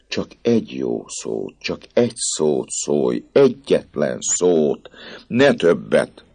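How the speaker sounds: desperate lover begging for one word; pleading priest. Acted. (kétségbeesetten könyörgő pap)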